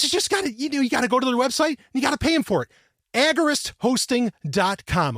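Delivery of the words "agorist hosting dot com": slow, deliberate brand name; drawn-out sponsor name; slow plug. Shown as a demonstration. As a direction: spell it out slowly for listeners. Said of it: "that's A G O R I S T".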